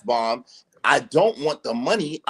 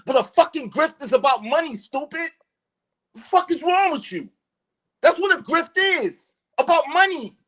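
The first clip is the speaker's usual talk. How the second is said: higher pitched, heated scolding; angry rant; 6 semitones higher than usual. Real, not acted. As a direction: tear into him, really furious. Ranting at his opponent on the panel.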